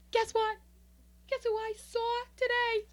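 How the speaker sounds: high, loud show-off squeal; showy bragging. Acted. Woman showing off her nails to friends, high and bragging. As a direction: brag to friends, drawing out the big news. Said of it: "I've been talking like this".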